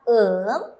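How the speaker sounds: slow "um" closing on the lips; Korean syllable um. Shown as a demonstration. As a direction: model "um" slowly for learners. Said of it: "se pronuncia".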